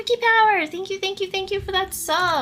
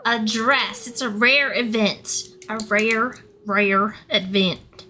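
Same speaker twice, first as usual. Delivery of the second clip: relaxed, slow Southern drawl; super Southern, words drawn out; 5 semitones lower, slower than usual. Real, not acted. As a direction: slip into a lazy Southern drawl, lower and stretched out. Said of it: "Sometimes I go super Southern".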